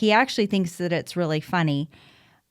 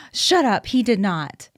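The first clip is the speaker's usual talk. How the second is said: shocked shriek; 3 dB louder than usual. Retold or imitated. On the phone, gossiping about a friend, shrieking in shock. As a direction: squeal it like juicy gossip landed. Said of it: "I literally shrieked on the phone".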